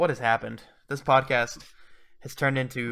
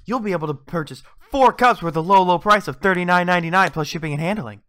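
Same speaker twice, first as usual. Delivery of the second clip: infomercial. Pretend. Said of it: "throughout the entire advertisement".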